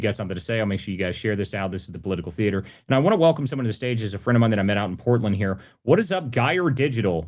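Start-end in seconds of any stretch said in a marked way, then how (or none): 5.8-7.2 excited greeting. Real, not acted. Host welcomes guest to stage.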